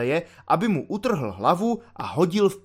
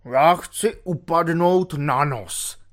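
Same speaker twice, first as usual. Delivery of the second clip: resolute declaration; slower than usual. Acted. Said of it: "prohlásil rozhodným hlasem".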